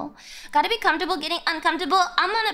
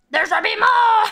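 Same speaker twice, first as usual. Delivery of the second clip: loud laughing exclaim; excited outburst; 5 semitones higher, 7 dB louder than usual. Real, not acted. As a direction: blurt it out, thrilled. Excited at chat numbers.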